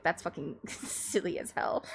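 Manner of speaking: breathy laughing aside; amused. Retold or imitated. Streamer retelling her own reaction, laughing half-whisper. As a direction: laugh the words out under the breath. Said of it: "I was like".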